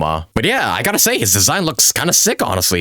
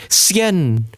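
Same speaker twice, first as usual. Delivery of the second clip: lightly voiced character, raised pitch; Madam Ping; slower than usual. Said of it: "she nodded and reply".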